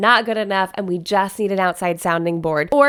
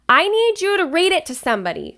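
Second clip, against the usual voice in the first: high-pitched, insistent outburst; loud urgent plea; 8 semitones higher than usual. Real, not acted. Host urging viewers to share their vows, loud insistent plea. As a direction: get carried away, voice jumping up high. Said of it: "I got loud".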